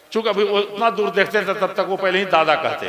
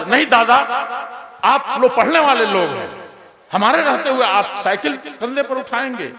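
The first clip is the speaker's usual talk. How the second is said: put-on respectful old villager; 5 semitones higher than usual. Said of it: "वो बूढ़ा दौड़ करके आता".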